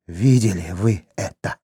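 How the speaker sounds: хрипло; hoarse wheeze. A narrator's reading. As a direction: rasp it out, spent from the fight. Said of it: "прохрипел Хорват".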